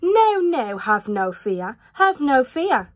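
lightly voiced cheerful cat; a hint of a breezy cat. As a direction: brush off worries with a grin. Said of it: "said the cat".

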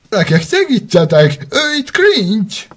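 loud, high alarm call; calling for help. Acted. Girl calls the children for help against Grinch, loud and high.

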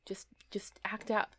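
hushed whisper. Real, not acted. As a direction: whisper it softly. Whispering while playing the game.

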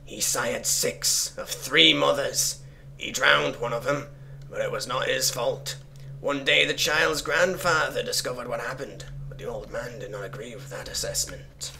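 measured, solemn reading of a dark note; story narration. Acted. Player reading cultist scribblings aloud, measured storytelling. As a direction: recite it deliberately, line by line.

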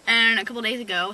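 talking while chewing gum. Real, not acted. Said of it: "sorry, I'm chewing gum".

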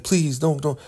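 high mock plea; lightly voiced, beg in a squeak; mock begging. Bridget begs Ruth not to send her away, in a high mock plea.

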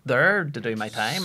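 indignant protest. Retold or imitated. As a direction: re-enact being indignant over unpaid work. Disputing the unpaid fee.

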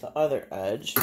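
Bay City long A in "hanging"; natural Bay City accent slipping out. Real, not acted. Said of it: "That's my Bay City accent".

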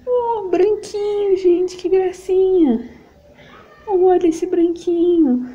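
high, slow cooing over tiny clothes. Real, not acted. Mom-to-be cooing at a gift baby outfit, high and slow. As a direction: melt over the little white outfit, drawn out high.

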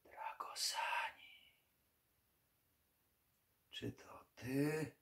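slow, breathless whisper from the grave; ghostly whisper. Acted. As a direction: whisper the name slowly, like a voice from the earth. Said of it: "Szept wdarł się do umysłu".

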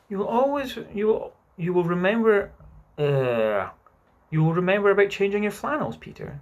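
lingering fondly. Acted. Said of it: "lingering over him".

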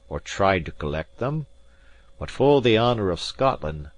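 lightly voiced Scots gentleman, firm and proud; proud Highland gentleman. Gentleman firmly refusing the captain, lightly voiced proud Highlander.

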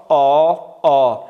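loud, slow back "آ"; long alef-madd vowel. Shown as a demonstration. Teacher drills fourth alef, loud drawn-out "آ". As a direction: hold "آ" long, as rounded "aw". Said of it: "رو به بالا".

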